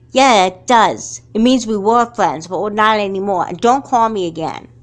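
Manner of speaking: curt angry dismissal; cold anger. Acted. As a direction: shut the door on her. Ending the friendship.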